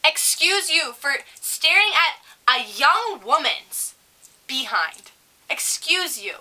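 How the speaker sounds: slow, high, drawn-out outrage; haughty put-on telling-off, very slow; indignant comeback. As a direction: stretch each word in mock offence. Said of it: "I was gonna be like".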